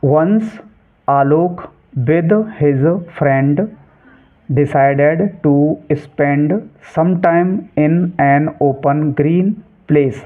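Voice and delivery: careful, drawn-out textbook reading; slow reading aloud. Shown as a demonstration. Teacher reading the English passage to students, slow and clear. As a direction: read each English word very slowly and clearly.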